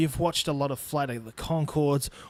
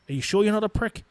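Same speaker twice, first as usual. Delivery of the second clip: higher-pitched parody question; mocking retort; 6 semitones higher, faster than usual. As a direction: throw the question back in mockery. Throws the mocked question back.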